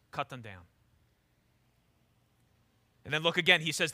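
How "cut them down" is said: grave drop. Acted. Dramatic drop after build.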